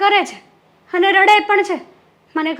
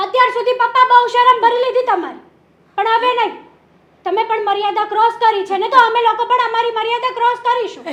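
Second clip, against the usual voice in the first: indignant, pitched-up warning; angry confrontation; 3 semitones higher, 3 dB louder than usual. Acted. Daughter warns father they will cross limits too, angry. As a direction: stand up to him with rising indignation.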